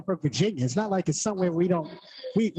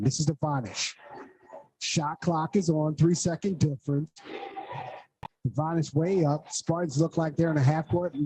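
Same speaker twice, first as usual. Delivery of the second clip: quick radio play-by-play call; faster than usual. Real, not acted. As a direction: call each pass as it happens.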